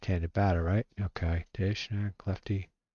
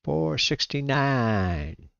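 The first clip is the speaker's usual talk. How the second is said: drawn-out, higher-pitched words through a yawn; 6 semitones higher, much slower than usual. Real, not acted. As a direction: stretch the words out slowly while yawning. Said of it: "Sorry, I'm yawning".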